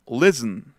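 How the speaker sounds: 'listen' as LIS-n, no t; silent T. Shown as a demonstration. Teacher modelling for students, 'listen' with the t lost. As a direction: run s straight into n in 'listen'. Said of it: "hasta se pierde la T".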